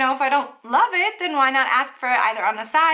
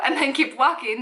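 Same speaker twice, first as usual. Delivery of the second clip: normal talking voice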